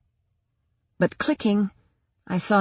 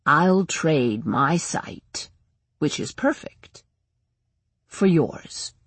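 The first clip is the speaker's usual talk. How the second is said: sinister tempter. Acted. Shadow Man offers a bargain.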